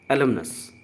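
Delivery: "अलमनस" said clearly as "uh-LUM-nus"; repeated for pronunciation. Shown as a demonstration. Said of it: "का singular form अलमनस होता है". ("अलमनस" साफ़-साफ़ दोहराएँ)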